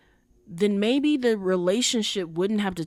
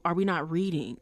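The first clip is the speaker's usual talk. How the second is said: a laugh breaking into the question; 2 semitones lower, 3 dB quieter than usual. Real, not acted. To viewers who misread the show, laughing. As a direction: laugh as you repeat it, amused at the viewers.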